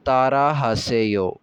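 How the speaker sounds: तारा हासेयो said slowly and evenly; slowed model phrase. Shown as a demonstration. Teacher to students, saying तारा हासेयो slowly to be repeated. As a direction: repeat तारा हासेयो at a slow, steady pace. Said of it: "जैसे मैं पढ़ रहा हूँ, ऐसे मेरे पीछे दोहराइए".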